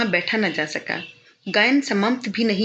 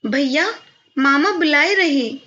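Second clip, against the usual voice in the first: put-on high, louder sweet little girl's call; thin sweet voice; 6 semitones higher, 5 dB louder than usual. A narrator's reading. Servant's daughter calls brother to uncle, thin sweet voice. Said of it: "एक महीन मीठी सी आवाज सुनाई दी".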